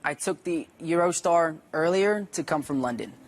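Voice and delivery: measured British-accent reading. Shown as a demonstration. Actor demonstrates his Eurostar line, British accent.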